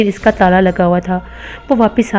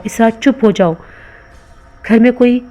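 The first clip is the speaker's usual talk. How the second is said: a mildly raised, scolding outburst; sudden anger. Acted. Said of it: "धाड़ कर बोला". (हल्के गुस्से में डाँटते हुए)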